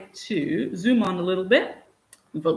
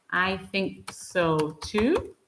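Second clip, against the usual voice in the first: slow model phrase; 4 dB quieter, much slower than usual. Shown as a demonstration. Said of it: "is a great way to say it".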